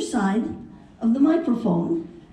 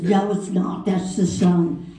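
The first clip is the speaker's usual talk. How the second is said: lower, drawn-out London twit contradicting; London accent; 3 semitones lower, slower than usual. Retold or imitated. Two twits arguing on the curb, London accent. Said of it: "arguing with each other".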